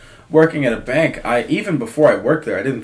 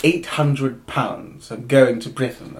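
put-on slow, understated British accent; lightly put-on British voice at the counter; 4 dB quieter, slower than usual. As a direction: imitate a British customer, unhurried. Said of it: "he says it in an accent".

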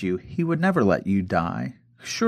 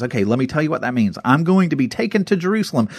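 excited retelling; 4 semitones higher than usual. Retold or imitated. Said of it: "in Jesus' excitement".

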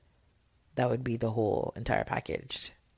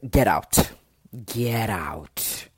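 mock get out; 4 semitones lower, 6 dB louder, much slower than usual. Podcaster jokingly ordering non-watchers out, loud mock command. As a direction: bark get out at listeners, half joking. Mock telling listeners to leave.

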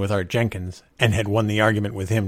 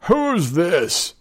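higher drunken challenge, lightly played; thick-voiced demand; 9 semitones higher, 4 dB louder than usual. A narrator's reading. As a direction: demand it like a man in his cups. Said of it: "he demanded thickly".

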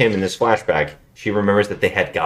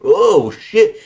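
mock shock, pitched up; retold outburst, higher and louder; acted startled reaction; 6 semitones higher, 5 dB louder, much slower than usual. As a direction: play the sudden realization. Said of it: "And he's like".

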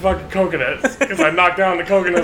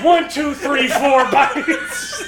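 mock frantic counting; 6 semitones higher, much slower than usual. Acting out counting snake bites.

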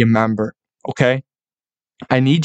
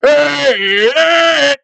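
put-on much higher, loud drunken hollering; drunk fan yelling; 14 semitones higher, 3 dB louder than usual. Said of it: "you hear some drunk maniac in the back".

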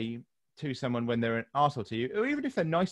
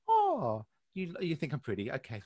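mock flattered reply; 4 dB quieter than usual. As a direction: feign being flattered, then drop to a quiet okay. Acted reply to an online troll.

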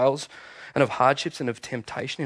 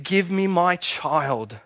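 slow, solemn declaration; Jesus defiant; slower than usual. Acted. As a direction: speak it slowly as a victor. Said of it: "he said".

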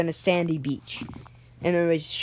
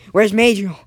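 urgent shout; 3 semitones higher, 7 dB louder than usual. Acted. Miguel urgently asks after friend.

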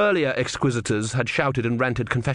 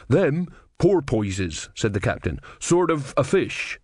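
rough sea captain; 3 semitones higher, slower than usual. Acted.

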